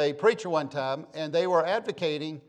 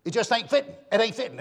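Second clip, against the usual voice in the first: lightly voiced country mama, higher pitch; mama's voice; 6 semitones higher, faster than usual. Preacher quoting your mama, lightly imitated country mother. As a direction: imitate a folksy Southern mother. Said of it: "and your mama would say".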